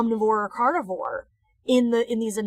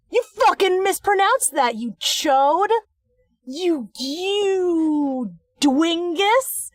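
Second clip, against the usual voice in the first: high-pitched, sputtering indignation; mock-outraged insults; 6 semitones higher, much slower than usual. Real, not acted. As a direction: scold him with playful outrage, stretching the you. Insults narrator for mispronouncing the word.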